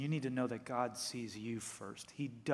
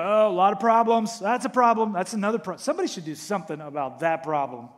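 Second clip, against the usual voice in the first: fretful complaining; 6 semitones higher, 13 dB louder, faster than usual. Retold or imitated. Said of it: "They look at a world and go".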